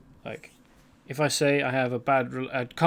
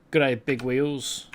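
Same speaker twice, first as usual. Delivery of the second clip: drawled Aussie greeting; much slower than usual. Retold or imitated. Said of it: "there's several others, like".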